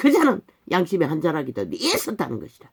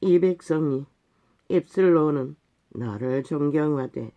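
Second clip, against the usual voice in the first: scripture recitation; slower than usual. Acted. Preacher reading Isaiah's rebuke of hypocrites, slow solemn recitation. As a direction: intone the verse slowly, word by word.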